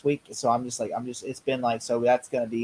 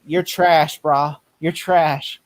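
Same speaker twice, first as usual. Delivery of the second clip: Bully Maguire; 3 semitones higher, 5 dB louder, much slower than usual. Retold or imitated. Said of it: "all the Bully Maguire lines".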